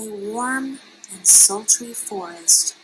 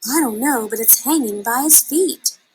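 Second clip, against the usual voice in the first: chirping; 3 semitones higher than usual. Acted. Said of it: "chirped Flitter".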